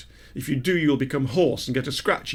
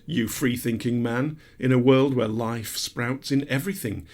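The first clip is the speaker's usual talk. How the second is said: poem recital. Retold or imitated. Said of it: "it's all explained in a poem by Nerval".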